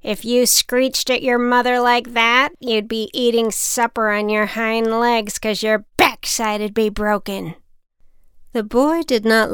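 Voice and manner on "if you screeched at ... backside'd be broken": a hint of a scolding old lady; lightly voiced crone, reproachful; stern old woman. Old woman in the store scolding a rude boy.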